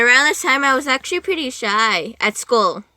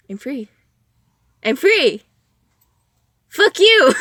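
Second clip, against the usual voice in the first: gleeful freedom shout; 4 semitones higher, 6 dB louder than usual. Retold or imitated. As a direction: crow your freedom, ending in a loud cheeky fuck you. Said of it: "I'm like".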